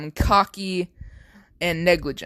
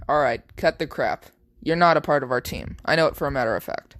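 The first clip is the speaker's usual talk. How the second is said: lower, fast, no-nonsense soldier; stern Deku; 4 semitones lower, much faster than usual. Acted. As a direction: cut her off briskly.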